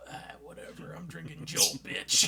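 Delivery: dismissive then yelled bitch; defiant teen sneer. Retold or imitated. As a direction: brush it off then shout the insult. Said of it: "we're over here like".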